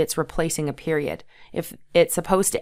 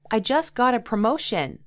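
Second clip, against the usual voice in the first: excited; 5 semitones higher than usual. Retold or imitated. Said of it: "my dad exclaimed".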